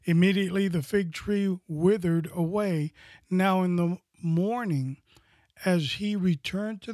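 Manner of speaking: scripture reading. Acted. Reads scripture passage.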